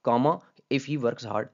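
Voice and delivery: slow, with "comma" spoken between the clauses; punctuation read aloud. Shown as a demonstration. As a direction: dictate the "comma" before "if he works hard". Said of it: "आप साफ ज़ाहिर ये तो नहीं कह सकते".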